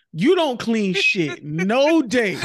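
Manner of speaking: slow, punched-out scolding at first; angry girlfriend rant. Pretend. Girlfriend scolding man for cleaning out fridge, angry. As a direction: let the grievance build. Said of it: "the girl be like".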